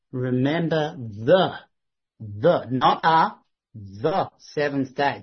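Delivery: slow, weighty reading of "the seventh day"; "the" in "the seventh day" drawn out and stressed; slow, stressed quote. Shown as a demonstration. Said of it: "definite article".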